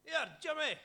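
hammed-up drunk pal spotting an old friend; drunk Scotsman. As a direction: ham up a staggering drunk on a train. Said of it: "staggered up and was like".

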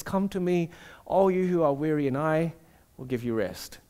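Jesus softly inviting his tired disciples to rest; gentle invitation. Acted. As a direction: invite them in gently, trailing off. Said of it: "and he says".

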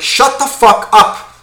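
loud, drawn-out exasperated snap; getting angry. Real, not acted. Ranting at the show-off, angry outburst. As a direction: shut him down, fed up. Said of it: "I'm getting angry".

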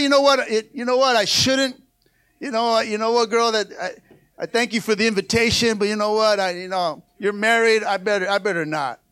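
hesitant, half-hearted no to temptation; wishy-washy refusal. Retold or imitated. Preacher mocking a weak answer to a tempting wife, hesitant. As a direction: dither and hedge, unsure of yourself. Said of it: "That's not how you talk to sin".

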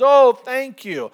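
high, loud, drawn-out thanks; delighted dad. Retold or imitated. Dad thanking his son on the phone, delighted.

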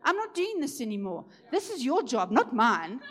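acting out a firm, heartfelt challenge in prayer; bold faith. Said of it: "He stood in faith".

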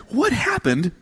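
smug, satisfied "What happened?"; highly satisfied. Retold or imitated. Father leaning over his beaming sons, highly satisfied. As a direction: savour the question like a gift. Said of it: "A highly satisfied tone in my voice".

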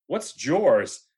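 "Jaws" echoed as "jors", with an added r; puzzled echo. Retold or imitated. Heidi, baffled by the accent, echoes "Jaws" as "jors". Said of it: "her face literally just goes like".

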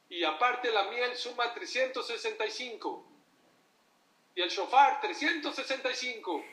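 showy rabbi preaching. Retold or imitated. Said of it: "El rabino que dice".

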